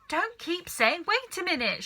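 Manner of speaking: high, loud impatient shout; father shouting at his son. A narrator's reading. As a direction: snap at the boy to stop. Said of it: "shouted Mister Cranky".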